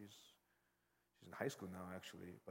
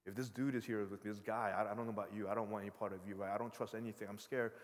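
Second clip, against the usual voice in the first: loud, rushing mock distrust; scared refusal; 6 dB louder than usual. Niece refusing the unfamiliar uncle, loud mock fright. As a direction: push him away in a toddler's agitated protest.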